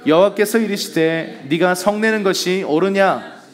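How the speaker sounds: formal recitation from the pulpit; scripture reading. Acted. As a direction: read the verses out deliberately to the congregation. Reads scripture aloud.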